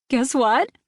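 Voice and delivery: bursting to share news; bubbling excitement. A narrator's reading. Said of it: "all but bubbling over with excitement".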